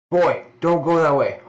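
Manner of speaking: urgent shouted warning. Acted. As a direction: yell it across the distance. Character calls out warning.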